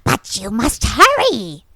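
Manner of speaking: put-on slow, creaky old witch voice. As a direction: croon it like a hunched old witch. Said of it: "playing this witch character".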